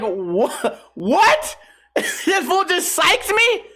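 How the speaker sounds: high, stammering mock shock; stunned disbelief. Man pranked by a reverend, high-pitched incredulity. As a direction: react baffled, voice shooting up into a laugh.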